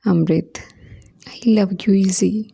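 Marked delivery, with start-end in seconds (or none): 1.3-2.4 tender confession. Acted. Husband confesses love on phone.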